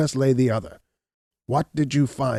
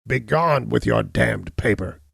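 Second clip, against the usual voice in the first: slow, louder cursing outburst; angry cry; 2 semitones higher, 5 dB louder, slower than usual. Acted. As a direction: spit out the curse. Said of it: "he cried".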